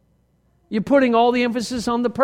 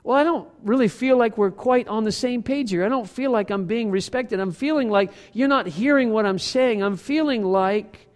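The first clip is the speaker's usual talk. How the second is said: calm I-statement. Shown as a demonstration. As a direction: state the feeling without blame. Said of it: "taking the sting out of it".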